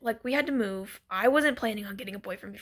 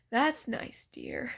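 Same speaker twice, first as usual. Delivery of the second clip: mildly indulgent brush-off; unfazed; 5 dB quieter, much slower than usual. Retold or imitated. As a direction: humor him without any interest, sinking on the last word. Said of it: "not even phased".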